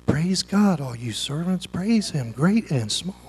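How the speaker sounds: mock half-hearted praise; limp mumble. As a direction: say it like nobody cares. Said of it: "I don't think he said".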